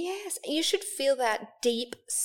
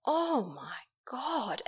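mock disbelief; 3 semitones lower, 9 dB quieter, much slower than usual. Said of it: "He's like".

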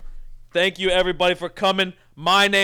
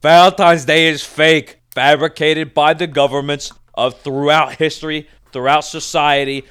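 loud ranting conspiracy theorist; 7 dB louder than usual. Acted. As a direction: rant like you've seen the truth. Conspiracy rant about fake holiday.

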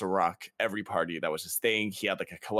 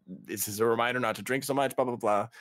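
mock nice mom; 6 semitones higher than usual. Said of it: "being nice".

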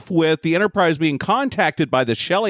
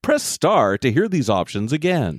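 phone menu voice. Pretend. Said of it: "like, the phone tree".

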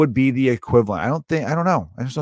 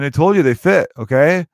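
mock kid yell; 4 semitones higher, 4 dB louder than usual. Kid snapping at mom in the store, mock yell. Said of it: "you're yelling in the middle of a J C Penney".

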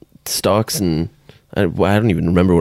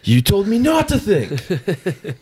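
high, slow squawking mimicry; mocking rooster voice; 11 semitones higher, much slower than usual. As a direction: stretch it out like a crowing rooster. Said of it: "Shut up, fucking rooster".

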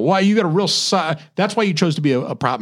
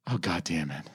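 caught-out groan; 10 semitones lower, 13 dB quieter than usual. Retold or imitated. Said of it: "you're just like".

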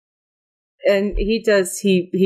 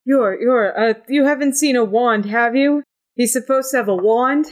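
a slightly flustered voice, pitched up; halting, higher-pitched character asking after a lost item; Carpathius; 5 semitones higher than usual. Acted. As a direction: fret lightly while asking. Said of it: "Carpathius goes back and says".

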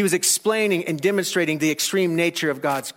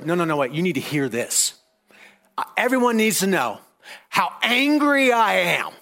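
angry ranting. Retold or imitated. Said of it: "an angry person who needs to make everyone hear".

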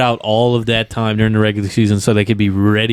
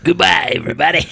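higher-pitched wrestler farewell; Randy Savage; 6 semitones higher than usual. Acted. Wrestler told to say goodbye, in Randy Savage voice. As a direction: sign off in a put-on wrestler voice. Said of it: "Say, say goodbye, Randy".

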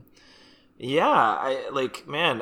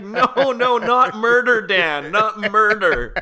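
louder, slower pleading protest; loud mock pleading; 6 semitones higher, 5 dB louder than usual. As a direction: beg him to stop, half laughing. Acted pleading with Dan.

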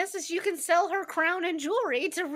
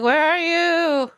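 louder, slow call; 4 semitones higher, 9 dB louder, slower than usual. Retold or imitated. Calling for Inigo in the castle. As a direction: shout it out to someone unseen.

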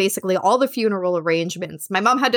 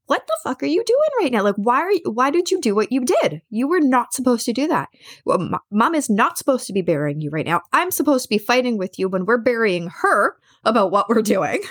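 retold berating; 2 semitones higher than usual. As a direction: retell giving him shit, indignant at the start. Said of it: "I was giving him shit".

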